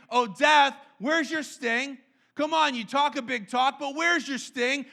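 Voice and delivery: defiant, mocking challenge to death; taunting death. Paul taunting death, defiant and mocking. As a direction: taunt death like a bully who lost. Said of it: "He says".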